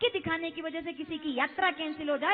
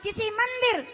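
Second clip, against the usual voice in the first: slow, measured start building to loud, ringing conviction; confident declaration; 5 dB louder, slower than usual. Retold or imitated. Preacher voicing eight-year-old Prahlad declaring where God sits, confident building declaration. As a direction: build each phrase toward a loud, emphatic peak. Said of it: "विश्वास के साथ कहा".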